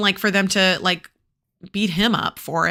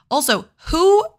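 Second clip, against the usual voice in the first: outraged disbelief; 10 semitones higher, 6 dB louder than usual. Real, not acted. Reader's outraged aside.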